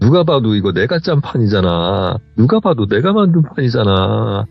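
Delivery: slow, drawn-out plaint, rising at the end; retold tearful lament. Wronged aunt lamenting to Jeonbae, slow mock-tearful plea. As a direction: imitate weeping self-pity, stretching each phrase. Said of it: "이러면서 막 우시는 거예요".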